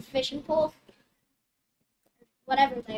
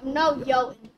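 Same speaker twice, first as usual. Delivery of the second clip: insistent; 7 dB louder than usual. Acted. Calypso insisting.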